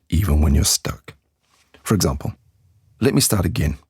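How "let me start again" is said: "Let me start again" with the voice dropping on "again"; falling intonation. Shown as a demonstration. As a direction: say it as a statement, down at the end. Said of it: "make the voice go down on again".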